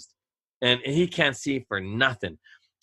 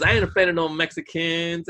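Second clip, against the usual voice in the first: effeminate voice; 4 semitones higher than usual. Retold or imitated. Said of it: "he's an effeminate black dude".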